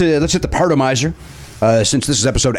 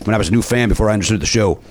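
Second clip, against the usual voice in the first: put-on Cajun accent. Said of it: "doing an accent".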